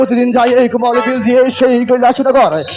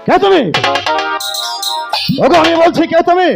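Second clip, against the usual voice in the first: hammy stage actor; 2 semitones higher than usual. Acted. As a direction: bellow it like a stage god demanding answers. Shiva challenges stranger, shouting.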